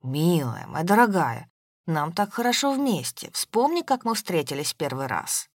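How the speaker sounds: ooze charm like condensed milk; syrupy sweet. Acted. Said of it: "напомнил растекающуюся сгущёнку".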